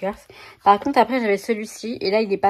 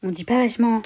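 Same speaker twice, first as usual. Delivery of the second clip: quoting La Boum; faster than usual. Retold or imitated. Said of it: "Ça me fait penser au film La Boum".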